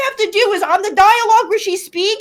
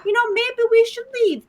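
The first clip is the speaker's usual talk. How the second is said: higher-pitched, mild suggestion; mock calm; 4 semitones higher than usual. Player retells the dragon flying off, mock calm. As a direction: imitate someone suddenly all composed. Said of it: "She comes up all calm".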